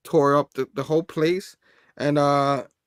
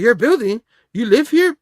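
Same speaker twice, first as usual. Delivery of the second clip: higher and louder, startled questions; mock surprise; 7 semitones higher, 7 dB louder than usual. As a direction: sound caught off guard. Character shocked it's Peter's building.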